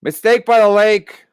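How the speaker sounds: breathless read after laughing; out of breath. Real, not acted. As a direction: gasp the words out between breaths. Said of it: "I'm out of breath".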